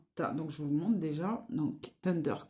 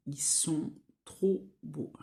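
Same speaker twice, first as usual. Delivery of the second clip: admiring whisper; 3 semitones lower, slower than usual. Real, not acted. Admiring her shades.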